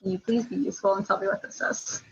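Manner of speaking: polite request, leaning on please; asking nicely. Real, not acted. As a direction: soften it into a courteous ask. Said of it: "You can ask nicely to a friend".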